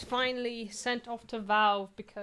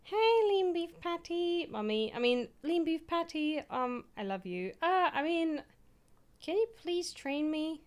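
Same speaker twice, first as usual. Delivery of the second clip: higher and louder, hammed-up swooning fan; flirty fan message; 7 semitones higher, 4 dB louder than usual. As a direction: gush at your fitness crush like a giddy fan. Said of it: "be like".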